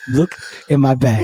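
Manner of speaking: lightly imitated African accent; African-accented mock plea. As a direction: plead in a put-on African accent. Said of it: "He put the accent on".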